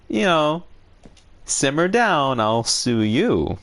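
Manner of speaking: a mock-heated scolding, rising up; fiery threat. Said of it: "I was like".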